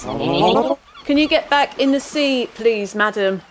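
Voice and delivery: slow, firm, deliberate request; firm police request. Acted. Constable ordering the sea creature back, slow and firm. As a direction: spell it out slowly to the creature. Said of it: "Sorry, I'll have to stop you there".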